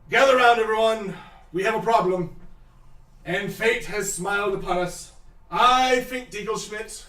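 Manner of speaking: grand proud address; pompous announcement. Acted. Pompous NPC addresses crowd.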